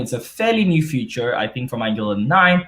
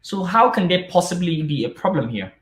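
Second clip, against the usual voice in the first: imagined student asking; 5 semitones higher than usual. Retold or imitated. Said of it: "asking me".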